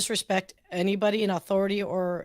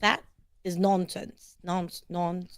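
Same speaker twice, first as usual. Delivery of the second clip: put-on slow, careful go at a British accent; imitated British accent; 4 dB quieter, slower than usual. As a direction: try out a British accent, deliberately. Imitates the British phrase just given.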